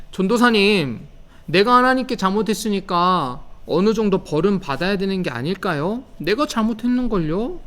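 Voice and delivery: put-on a small kid pleading with the pastor, pitch up; child asking. Preacher voicing a preschooler asking about punishment, childlike pleading. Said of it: "유치부 친구들이 이렇게 질문할 수도".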